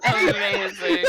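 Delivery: delighted laughing shout. Real, not acted. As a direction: laugh it out big. Laughing reaction to spell.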